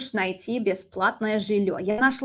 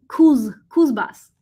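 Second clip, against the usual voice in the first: whisper; 3 semitones higher, 8 dB louder, slower than usual. Real, not acted. Squinting at blocked screen text.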